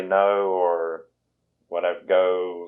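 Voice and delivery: drawn-out Southern "no" and "go", slow; Southern O vowel. Shown as a demonstration. Showing a friend how her O sounds in Tennessee, slow drawn-out vowels. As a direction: stretch the O in "no" and "go" the Southern way. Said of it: "any word ending with O".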